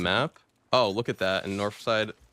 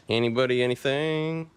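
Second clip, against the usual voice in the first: calling out; 3 semitones higher, 5 dB louder than usual. Real, not acted. Calling out for loot.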